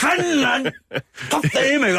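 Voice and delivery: high, hammed-up cursing yell; imitated shouting. Host acting out man swearing at police, high mock yell.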